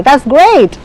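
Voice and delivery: GREAT swung up high, then falling; high intonation comment. Shown as a demonstration. Teacher repeating the praise example, intonation high on GREAT. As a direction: put a big pitch lift on GREAT. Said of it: "the intonation goes high".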